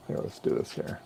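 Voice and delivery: whispering to himself; whispered mutter. Real, not acted. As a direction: breathe it under your breath. Muttering to himself while working.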